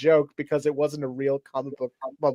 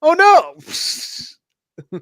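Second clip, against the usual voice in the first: Oh no exclamation; 13 semitones higher, 6 dB louder than usual. Real, not acted. Exclaiming after botched voice.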